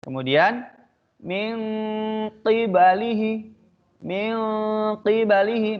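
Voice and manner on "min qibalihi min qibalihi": min qibalihi recited slowly, qaf from the throat; tajwid recitation. Shown as a demonstration. Teacher demonstrating the qaf letter to students. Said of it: "Persiapan huruf qaf".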